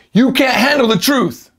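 high, drawn-out dramatic outburst; movie line. Acted. Teacher acts an old movie line for students, dramatically. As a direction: belt it out like a dramatic film actor. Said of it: "昔の映画".

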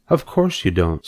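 calm the frightened pig; comforting. Acted. Spider soothing the pig afraid of dying, gentle comfort. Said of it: "in a comforting voice".

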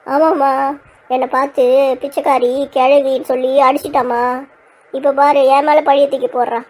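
put-on weepy grievance; mildly tearful tattling; tearful complaint. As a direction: complain as if crying, playing the victim. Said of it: "எதுக்கு இப்ப அழுதுட்டு இருக்கீங்க?".

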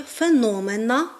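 феномена said феНОмена, beat on second syllable; stress on НО. Shown as a demonstration. Teacher showing the form for a person, stress on феНОмена. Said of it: "наголос все одно зберігається на складі".

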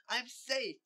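high, loud cheer; jubilant, high-pitched outburst. Acted. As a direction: shout it out in triumph. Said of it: "he cheered".

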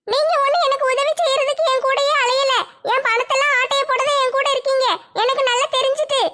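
put-on a stubborn girl holding her ground; young woman Nimmi. Nimmi accusing.

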